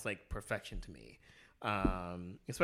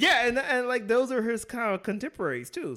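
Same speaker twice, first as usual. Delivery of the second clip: talking through laughter; high, loud laughing words; 11 semitones higher, 8 dB louder than usual. Real, not acted. Laughing at friend's joke.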